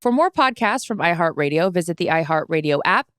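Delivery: measured announcer-style sign-off; podcast credit read. Acted. Host reading the production credit to listeners, announcer style. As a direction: read the show credit cleanly over music.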